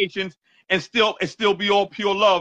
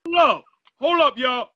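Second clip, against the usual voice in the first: higher, urgent hold up; excited hold up; 4 semitones higher than usual. Real, not acted. Host stopping the song to replay it, excited call. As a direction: halt everything, hyped.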